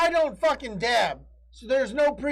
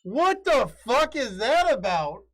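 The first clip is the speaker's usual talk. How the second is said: mock outrage; 4 semitones higher than usual.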